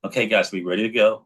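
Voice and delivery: quick, upbeat team rally call; pep-talk coach. Retold or imitated. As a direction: rev up the sales team like a coach. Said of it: "say the same thing to your sales org".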